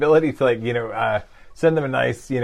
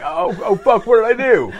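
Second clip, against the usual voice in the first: high, loud panicked yelp; hammed-up horror; mock panic; 9 semitones higher, 7 dB louder than usual. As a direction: play up the sudden alarm. Panicked reaction to complaint.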